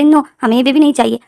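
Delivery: put-on high, loud stubborn little boy; whiny child. Little boy refusing to take the baby home, loud whine. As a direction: refuse like a spoiled kid.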